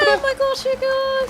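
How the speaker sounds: high, prim posh British; high, posh British dog voice. Pretend. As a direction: squeal it like a prim Brit.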